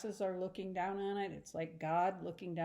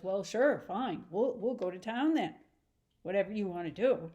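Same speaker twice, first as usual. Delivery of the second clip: testy. Acted. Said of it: "he's real testy about it".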